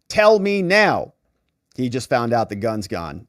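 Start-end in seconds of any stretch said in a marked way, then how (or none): 0.1-1.1 slow mock demand. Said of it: "Hunter says to her".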